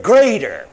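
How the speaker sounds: "greater" hammered home on its own; emphatic, isolated "greater"; stress on greater. Shown as a demonstration. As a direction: land "greater" firmly with a falling end. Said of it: "I'm only emphasize that word".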